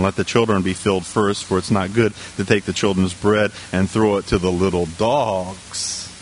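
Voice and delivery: low, measured Bible reading; scripture reading. Real, not acted. Preacher reading the verse to the congregation, low scripture reading.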